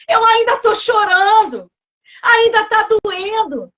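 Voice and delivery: acted sorrowful protest; mock lament. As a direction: plead slowly as grieving Joshua. Voices grieving Joshua pleading.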